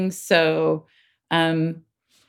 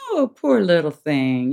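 soothing motherese. Shown as a demonstration. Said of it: "that's a very different tone".

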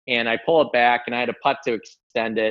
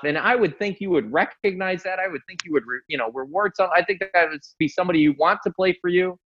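higher-pitched mock outburst at normal volume; retold screamed rant; 5 semitones higher, faster than usual. Retelling laying into the coach, mildly acted indignant rant. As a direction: plead your case in a mild mock rant. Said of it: "I'm just screaming this".

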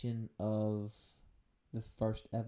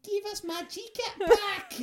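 put-on Scottish accent; 7 dB louder than usual. Continuing the Scottish impression.

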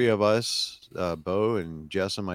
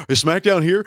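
much higher and louder, bursting; excited son; 11 semitones higher, 9 dB louder than usual. Retold or imitated. Son realizing at the arena, higher and louder excited. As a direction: voice jumping up in disbelief. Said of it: "He was excited".

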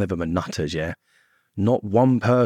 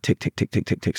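ticking in the head. Retold or imitated. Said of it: "be like".

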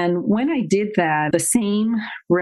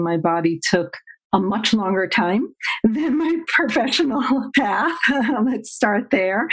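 laughing; 4 semitones higher than usual. Real, not acted. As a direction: chuckle at yourself while admitting it. Laughs at her own long road.

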